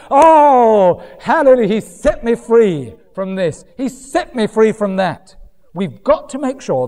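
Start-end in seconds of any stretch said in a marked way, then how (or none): 0.1-5.4 mock joyful testimony.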